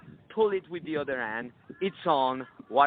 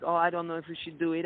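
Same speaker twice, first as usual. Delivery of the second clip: whiny hesitation; faster than usual. Shown as a demonstration. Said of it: "not in ways that are whiny".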